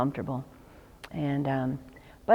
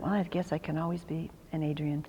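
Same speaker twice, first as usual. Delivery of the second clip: whispered thought; 8 dB quieter than usual. Retold or imitated. Private thought, resigned.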